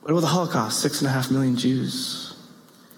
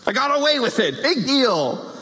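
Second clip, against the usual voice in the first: shrugging it off; 8 semitones higher than usual. Retold or imitated. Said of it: "It's like".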